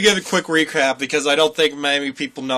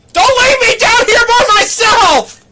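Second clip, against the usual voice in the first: yelling across the room; 7 dB louder than usual. Pretend. Left alone, calls out upstairs.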